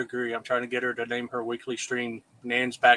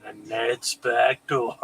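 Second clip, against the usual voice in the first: spooky ride narrator; 3 semitones lower, slower than usual. Shown as a demonstration. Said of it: "let's do that voice to say".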